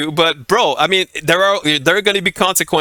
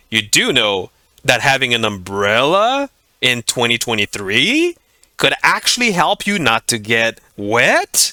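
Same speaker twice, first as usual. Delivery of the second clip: condescending, patronizing, talking-down tone; 5 semitones lower than usual. Acting out a remark to someone in the street, mock-condescending tone. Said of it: "That is so fucking condescending".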